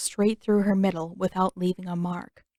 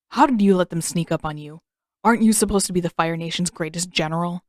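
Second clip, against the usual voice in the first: scolding; 2 semitones lower than usual. Acted. Zuko scolding his uncle.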